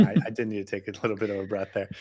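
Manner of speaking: laughing. Real, not acted. Laughing at being teased.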